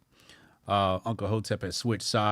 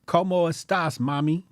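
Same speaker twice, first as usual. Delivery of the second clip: playful Spanish; 6 semitones higher than usual. Pretend. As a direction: toss out "¿Cómo estás, mami?" with swagger. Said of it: "Lizette said I would sound cool in Spanish".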